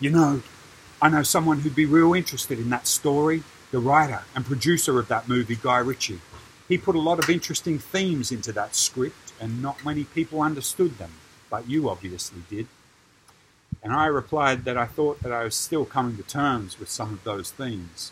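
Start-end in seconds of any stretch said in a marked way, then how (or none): 0.0-12.7 put-on heavy English accent laid on thick, raised and higher. Retelling what a celebrity replied after hearing the story: imitating a thick English accent. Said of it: "he replies in his thick English accent".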